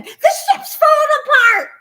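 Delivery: hoge, luide paniekkreet met een lach; mock scream. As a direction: roep het lachend uit als een paniekerige oude dame. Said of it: "she's down there screaming".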